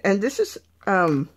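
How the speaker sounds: talking around a paintbrush in mouth; words muffled by a paintbrush held in teeth. Real, not acted. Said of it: "I've got the paintbrush in my mouth".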